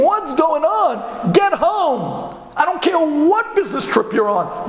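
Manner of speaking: high, urgent wife on the phone; mock panicking. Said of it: "His wife called him panicking".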